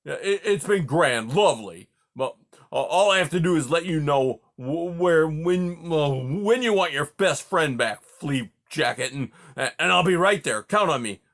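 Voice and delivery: put-on hurt old porcupine ranting at his friend; offended rant. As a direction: rant on, wounded and sarcastic. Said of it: "exploded Aerith".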